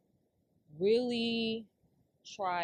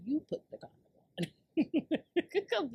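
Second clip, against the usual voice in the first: hushed, breath-only punchline; whispered taunt; 7 semitones higher, much slower than usual. Pretend. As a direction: whisper the mocking kicker.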